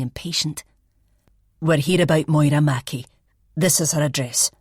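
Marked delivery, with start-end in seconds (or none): 1.6-4.5 put-on young constable, broad Fife accent, a bit louder; a young Fife PC stating it firmly at the door. Young PC at the door to the flatmate, broad Fife accent. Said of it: "in a broad Fife accent".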